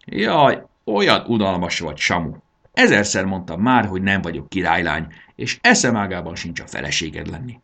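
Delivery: put-on fed-up girl scolding the dragon; annoyed scolding. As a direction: snap at him in mild annoyance. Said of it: "mérgelődött Bori".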